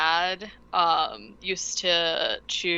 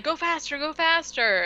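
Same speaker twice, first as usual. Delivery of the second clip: mock yell; 8 semitones higher than usual. Yelling to boat over motor.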